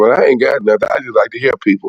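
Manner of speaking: usual speaking voice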